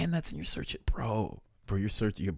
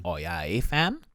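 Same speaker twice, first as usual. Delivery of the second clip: Canadian eh. Shown as a demonstration. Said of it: "we all say it".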